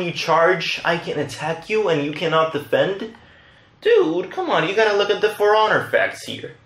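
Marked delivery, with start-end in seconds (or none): 3.8-6.6 high-pitched exasperated chiding; mock exasperation. Real, not acted. Player chiding an opponent who keeps charging, mock exasperation. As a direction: plead in a high voice, as if baffled.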